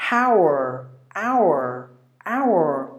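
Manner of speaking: "hour" as OW-er, R sounded; American rhotic "hour", OW-err; American pronunciation. Shown as a demonstration. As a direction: curl a clear R onto "hour". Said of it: "The R is also pronounced".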